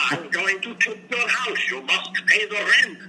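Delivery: high, hammy villain demanding rent; evil landlord voice. Retold or imitated. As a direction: play the moustache-twirling melodrama villain. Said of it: "the evil Simon the Green".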